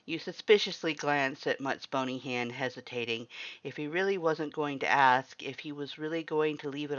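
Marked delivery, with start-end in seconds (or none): none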